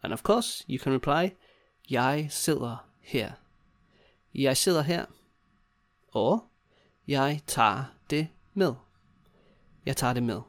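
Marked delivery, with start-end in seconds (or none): 1.9-3.3 slow, separated words. Shown as a demonstration. Teacher modelling the customer's reply, word by word. 7.1-8.7 word by word. Shown as a demonstration. Teacher modelling the takeaway reply, word by word.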